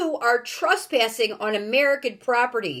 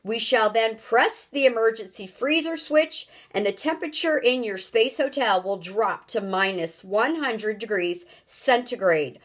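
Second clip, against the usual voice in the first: loud, raised threatening countdown; booming ultimatum; 3 semitones higher, 4 dB louder than usual. Acted. Houston threatens the strangers with freezing, booming ultimatum. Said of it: "boomed the voice".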